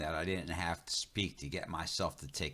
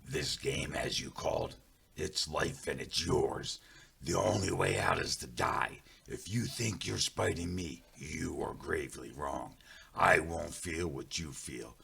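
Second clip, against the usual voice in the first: quiet, cold warning; grave spirit voice; 2 semitones lower, 3 dB quieter than usual. Acted. Running Bear grave reply.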